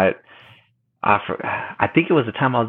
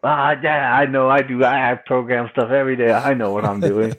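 mock know-it-all; 4 semitones higher than usual. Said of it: "We were Mister Know-it-all".

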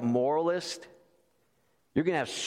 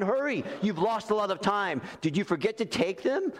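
higher, lightly voiced bishop covering for the thief; a hint of a fussy bishop scolding gently; monsignor's reply; 6 semitones higher than usual. Bishop to police, mock-scolding Jean, lightly voiced and higher. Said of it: "And then his reply".

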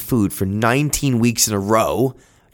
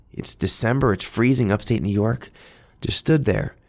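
ordinary delivery

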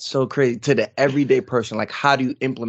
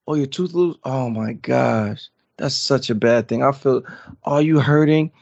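worried parent. Retold or imitated. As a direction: imitate a dad making it sound like bad news. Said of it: "if I would have been like".

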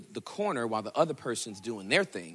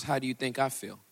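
voice of God; much slower than usual. Acted. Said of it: "To which he responds".

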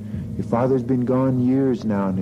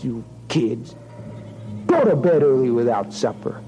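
slow, pitched-up scolding; scolding mother; 4 semitones higher than usual. Acted. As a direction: scold the girl for the spill. Mother scolds spilled water.

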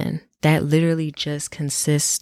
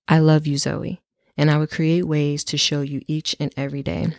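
reading a love letter. Acted. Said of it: "I'm gonna read my love letter to me".

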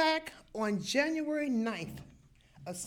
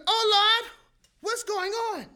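alarmed cry; 10 semitones higher, 5 dB louder than usual. Retold or imitated. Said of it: "I said".

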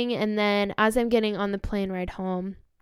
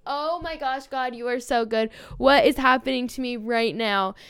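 amazed excitement; 3 semitones higher, 3 dB louder than usual. Retold or imitated. Amazed the girl is podcaster too.

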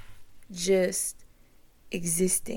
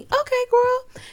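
hyped self-talk; 7 dB louder than usual. Retold or imitated. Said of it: "Oh, you have a Cricut machine".

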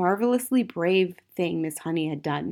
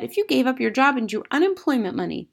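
put-on high, louder child's voice; earnest young Matilda; 7 semitones higher, 3 dB louder than usual. A narrator's reading. Matilda advising her teacher, high and earnest. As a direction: advise like an eager little girl.

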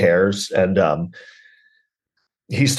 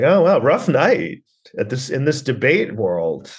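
slow, higher mock amazement; sarcastic understatement; 5 semitones higher, slower than usual. Comic summing up a grim film night, slow sarcasm. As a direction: draw it out in mock wonder.

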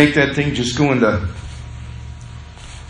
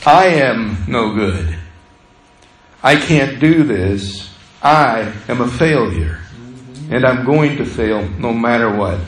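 defeated self-talk; 5 semitones lower than usual. Retold or imitated. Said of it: "you make it personal".

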